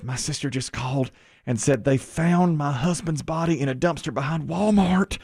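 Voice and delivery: lightly imitated Southern woman; Southern accent. Woman recounting her sister's call, Southern accent. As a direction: retell it with a touch of Southern accent. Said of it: "a woman with a Southern accent".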